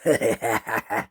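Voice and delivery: acted villainous chuckle; evil bird laugh. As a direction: gloat with a monster's laugh. Demon bird gloats after threat.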